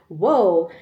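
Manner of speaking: a high burst of laughter that breaks into whoa; embarrassed laugh. Real, not acted. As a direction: laugh off the tears. Laughs off sudden emotion.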